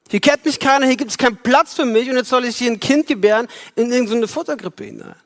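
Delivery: Mary, fed up in the stable, pleading upward; a touch of indignant young mother; Mary complaining. Pretend. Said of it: "das könnte auch Maria sagen im Stall".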